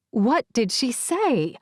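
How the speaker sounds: faraway voice over a video call; slow, small and muffled. A narrator's reading. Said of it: "Saren asks again".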